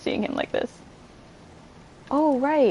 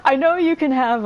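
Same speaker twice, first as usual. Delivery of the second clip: much higher, louder gleeful cry; delighted squeal; 10 semitones higher, 3 dB louder than usual. Real, not acted. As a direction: burst out with pure glee. Delighted exclamation.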